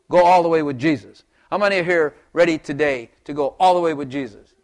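loud preacher's call, all hit hard; exhorting. Real, not acted. Preacher urging congregation to commit, loud exhortation. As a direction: urge them to go all the way.

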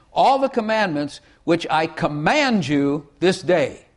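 "all the commandments" read slowly and deliberately; slow solemn scripture reading. Shown as a demonstration. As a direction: weigh every word of the verse. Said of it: "This is one way to do it".

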